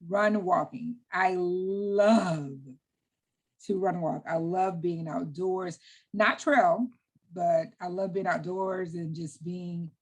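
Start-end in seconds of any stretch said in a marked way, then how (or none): 1.1-9.9 slow, savoring warmth; real smile in the voice, lingering on what you love. Real, not acted. Runner gushing about being outdoors, smile in the voice. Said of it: "hear the smile in my voice".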